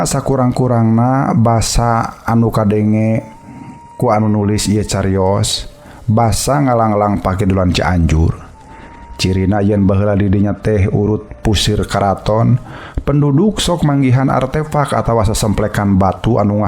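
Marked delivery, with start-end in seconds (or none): none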